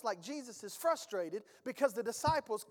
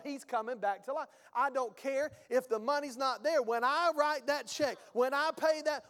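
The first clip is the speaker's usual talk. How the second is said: rolling, emphatic sermon build; fired-up preaching. Real, not acted. Preacher telling the congregation of bold faith, building fervor. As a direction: preach it with rising conviction, hardly stopping.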